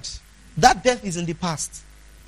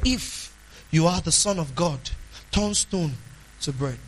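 softer, lower, insinuating tone that fades away; sly doubting devil; 4 semitones lower, 3 dB quieter than usual. Retold or imitated. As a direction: plant doubt quietly, like the serpent. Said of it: "That's the way the devil talks".

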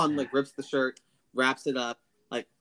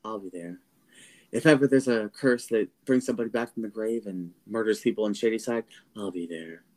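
imaginary heroic vow; 2 semitones lower than usual. Retold or imitated. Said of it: "And in my head, I was like".

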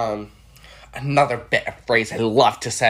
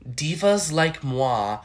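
divas like moi; much slower than usual. Retold or imitated. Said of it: "tweet from Miss Piggy".

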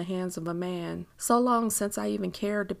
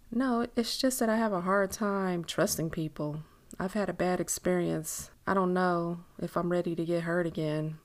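lightly voiced wary woman. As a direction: lightly play a woman reluctant to trust.

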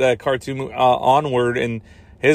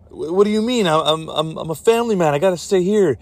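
lightly acted, higher-pitched stammer; mock protesting hero; 5 semitones higher, faster than usual. Family man refusing the war, lightly acted protest. Reluctant hero answers in skit.

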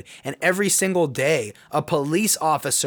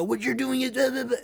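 mock dismissive quote; 8 semitones higher, 3 dB quieter than usual. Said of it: "I'm not gonna sit here and go".

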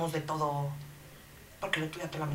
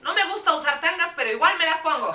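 put-on much higher, loud girly voice; 12 semitones higher, 9 dB louder than usual. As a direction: squeak it like a giddy girl. Confession sketch line.

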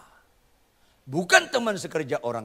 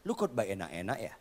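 God whispering; 6 dB quieter than usual. Retold or imitated. Preacher voicing God softly rebuking him. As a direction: hush it as God's quiet warning. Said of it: "Tuhan bisikin saya".

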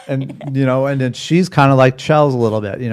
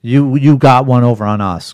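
higher, louder sarcastic mock politeness; sarcastic mock service; 4 semitones higher, 3 dB louder than usual. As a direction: play the fake-gracious server to a cheapskate. Mock-serving a cheap rich customer.

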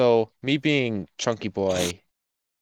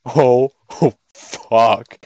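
1 mock startled curse; 3 dB louder, much slower than usual. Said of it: "I'm like".

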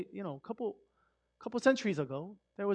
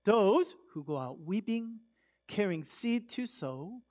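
scripture reading; much slower than usual. Acted. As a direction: savour each line of scripture slowly. Reads the psalm slowly.

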